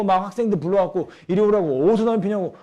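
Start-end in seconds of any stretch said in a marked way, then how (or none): 1.3-2.6 loud mock telling-off; elder's scolding. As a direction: summon the kids like a cross elder. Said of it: "어르신들이 길거리에서 젊은이들 막 책망하고". (어르신이 호통치는 흉내)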